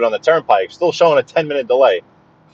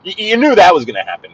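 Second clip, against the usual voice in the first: excited ranting. Real, not acted. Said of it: "Why am I yelling?".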